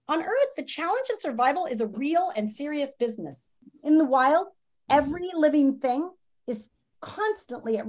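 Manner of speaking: lively storybook read-aloud for students; reading aloud to class. Acted. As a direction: read the chapter to the kids with expression. Teacher reads book to class.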